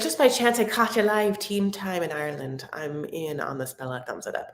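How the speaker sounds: lightly put-on Irish accent; Irish-accented comment reading. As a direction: read it out in a playful Irish accent. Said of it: "in an Irish accent".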